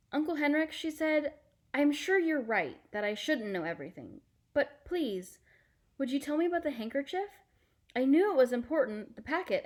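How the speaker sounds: put-on a child coaxing a secret out; pleading girl. Anne-Marie begging Uncle Henrik to explain, high and pleading.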